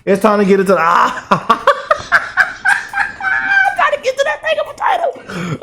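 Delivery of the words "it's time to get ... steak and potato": a giddy falsetto whoop of delight; high-pitched squeal. Acted. Gleeful about the main topic.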